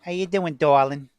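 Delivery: lightly put-on Chalmette accent. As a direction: imitate a friendly Chalmette local's accent. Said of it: "people talking like this".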